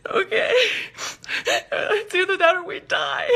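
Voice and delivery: high, slow, teary voice; imitating her younger self crying on the cliff; mock teary whine. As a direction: whimper it like a defeated kid. Crying girl agreeing to climb.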